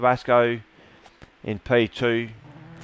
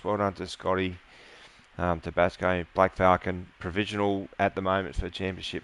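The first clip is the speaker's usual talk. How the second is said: after crying. Real, not acted. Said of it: "oh, sorry about that".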